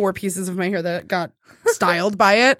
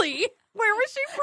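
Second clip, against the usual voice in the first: mock eager curiosity; 12 semitones higher, 6 dB quieter, faster than usual. Speaker mimicking her co-host asking about the accent, high and eager. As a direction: pitch it way up, acting intrigued. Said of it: "You'd be like".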